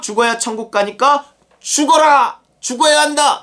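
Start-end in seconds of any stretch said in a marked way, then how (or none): 1.6-3.4 high, loud insistent cry; urgent shout. Pretend. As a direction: shout it as a command. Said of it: "이렇게 말하는 거예요". (천국을 믿는 설교자, 높고 큰 외침)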